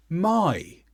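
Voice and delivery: "my" drawn out with a clear falling tune; contrastive stress. Shown as a demonstration. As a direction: highlight "my" as the correcting word. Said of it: "I and my provide the contrast".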